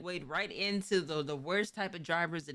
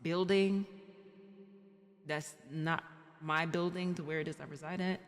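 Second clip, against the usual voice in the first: imitating friend asking. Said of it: "the occasional, like".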